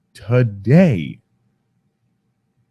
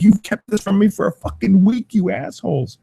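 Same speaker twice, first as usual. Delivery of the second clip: mock angry kid; 10 semitones higher than usual. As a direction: voice the kid as if betrayed over his toy.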